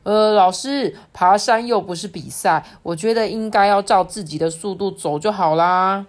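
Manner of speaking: lightly voiced classmate calling to the teacher; pupil speaking up. Pupil raises hand, addresses teacher.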